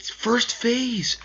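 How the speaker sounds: awed whisper; breathless stunned whisper. Real, not acted. Whispered disbelief.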